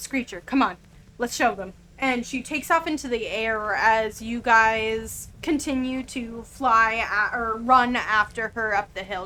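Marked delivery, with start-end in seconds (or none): 0.0-1.7 mumbled words. Voicing a dwarf who pats her griffin and urges it on: muttering. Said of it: "just kind of mutters a little bit and goes".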